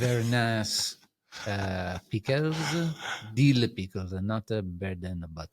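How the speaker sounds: light mock Italian accent, relishing the pickles; gentle hammed-up Italian accent. Telling the host about dill pickles, a light mock Italian accent. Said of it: "talk to me in an Italian accent".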